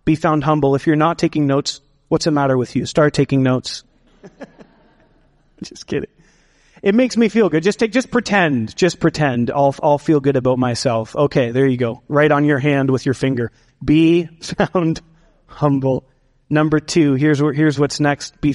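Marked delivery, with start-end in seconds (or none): 2.8-6.1 teasing through a laugh. Real, not acted. Jokes with the congregation. 13.8-16.0 a laugh breaks into the line; chuckling through the words. Real, not acted.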